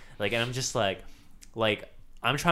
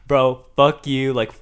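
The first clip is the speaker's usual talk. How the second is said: retold yelling; 8 dB louder than usual. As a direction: re-enact tilting at a teammate over comms. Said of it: "yelling at you on".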